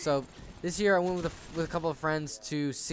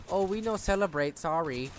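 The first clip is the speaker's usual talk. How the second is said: lightly put-on mock Asian accent, higher pitched; bad Asian accent; 3 semitones higher than usual. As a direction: imitate an Asian accent, badly. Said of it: "that was a bad Asian accent".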